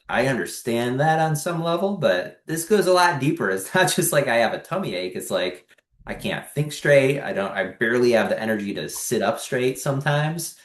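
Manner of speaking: retold insistent protest. Arguing with GI doctor.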